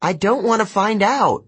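high-pitched shouted reply; urgent call. A narrator's reading. Girl answering her friend mid-flight, calling out. Calling back while flying.

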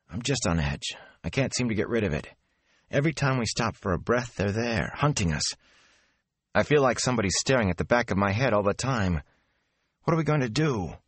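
jittery lad on edge; nervous young man. Acted. Mat voiced as anxious, nervous.

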